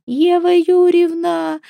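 high, slow, drawn-out tearful cry of a name. Acted. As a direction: wail the name through tears, relieved. Ревущая Галя бросается на шею. (плачущий протяжный возглас)

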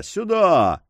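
the second "Сюда!" rises above the first. A narrator's reading. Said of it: "крикнул зычным голосом".

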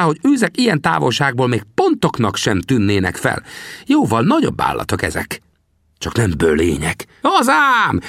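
put-on old trapper questions the young man. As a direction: play the grizzled scout, needling the greenhorn. Sam lecturing the greenhorn.

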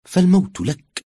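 hostile threat. A narrator's reading. Mother-in-law's imagined threat to the bride.

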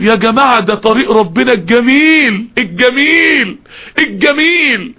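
rapturous praise. Real, not acted. Preacher praising God's beautiful path to the group, rapturous.

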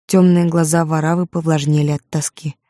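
ordinary delivery

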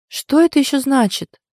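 high, loud challenge; indignant. A narrator's reading. Friend questioning the heroine's excuse, indignant. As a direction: demand an explanation indignantly. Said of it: "возмущённо переспросила Вика".

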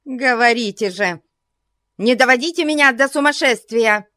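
high, quick frantic demand. A narrator's reading. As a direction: rush it, near hysteria. Frantic old lady. (в исступлении)

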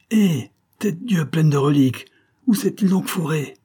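put-on high, loud old lord's oath; exasperated shout. A narrator's reading. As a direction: shout at the rocks for the hidden son. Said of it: "s'écria le seigneur".

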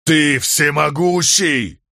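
high, slow call; awed exclamation. A narrator's reading. Man hails the storm god, awed exclamation. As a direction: cry it up to the sky, drawn out.

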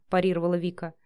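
usual speaking voice

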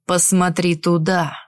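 menacing villain. Acted. Villain Gashar speaks to heroine.

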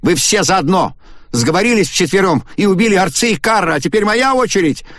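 very high furious shout; angry screaming. A narrator's reading. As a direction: hurl the accusation in fury. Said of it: "гневно сверкнув глазами". (Агата в гневе кричит на четверых)

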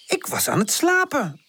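high, put-out complaint; grumbling. A narrator's reading. Tante to Pip after waking, grumbling. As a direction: grumble at being woken. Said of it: "moppert ze".

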